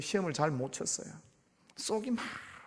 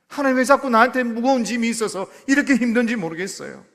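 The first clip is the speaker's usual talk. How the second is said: pleading prayer; 2 semitones higher, 7 dB louder than usual. Pretend. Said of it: "내 마음을 내놓고 기도하는 거".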